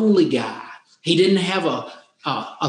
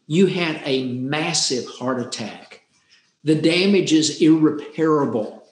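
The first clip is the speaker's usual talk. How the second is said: grave doctor; 4 semitones lower than usual. Retold or imitated. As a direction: lay out the bad news gently but heavy. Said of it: "he got real serious".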